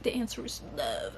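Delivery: hushed, breathy mock-profound whisper; imitating her soppy whispered line. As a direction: whisper it like a grand revelation. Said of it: "when she was like".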